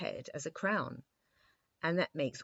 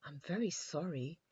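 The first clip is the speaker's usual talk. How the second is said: apologetic. A narrator's reading. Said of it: "replied His Majesty apologetically".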